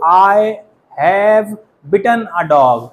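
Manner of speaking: slow, "bitten" with a short i; "I have bitten a dog" said slowly, short i in "bitten"; pronunciation demo. Shown as a demonstration. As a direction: spell out "bitten" word by word for the class. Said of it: "अगर आप ऐसे बोलोगे".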